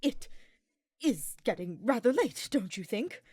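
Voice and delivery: halting, broken-up words; nervous stutter. A narrator's reading. Hubert, afraid of heights, stammering an excuse to Ferdinand. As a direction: stumble over it, trying to sound casual. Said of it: "Hubert stuttered".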